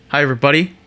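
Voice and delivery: light Southern twang; Southern accent. Real, not acted. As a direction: slip casually into a Southern accent. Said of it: "I said that in a Southern accent".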